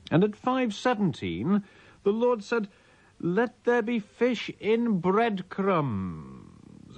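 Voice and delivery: hammy Shakespearean king, pitched high and drawn out; Richard the Third voice. Acted. Reading a mock Bible page aloud, hammed-up Richard the Third voice. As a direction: declaim the mock scripture like a ranting stage king.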